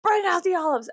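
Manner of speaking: high blurted stim phrase; vocal stim. Shown as a demonstration. Texting friends her stim at night, high blurt. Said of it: "I sent six of my friends".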